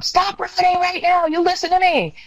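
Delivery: high retold principal's yell; principal screaming. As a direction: order the kids to stop. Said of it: "The principal's screaming".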